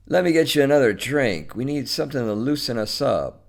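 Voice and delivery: lightly voiced man pressing a drink on his guest; coaxing host. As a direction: talk her into staying, briskly.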